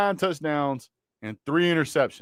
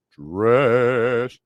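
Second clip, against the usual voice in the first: trash said flat and firm; "trash" said loud and final; emphatic trash; 4 dB louder than usual. Shown as a demonstration. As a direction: stamp the word trash down. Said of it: "Say it with me".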